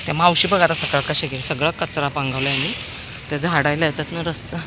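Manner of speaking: ordinary talk, nothing marked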